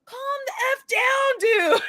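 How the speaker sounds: high, drawn-out mock exasperation; slow, high, fed-up retort; exasperated. Retold plea to aggressive typist.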